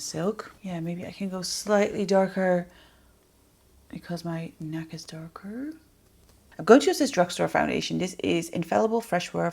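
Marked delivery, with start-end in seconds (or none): 3.9-5.7 whispered aside; breathy private reasoning. Real, not acted. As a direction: drop to a whisper to yourself. Muttered reason while choosing shade.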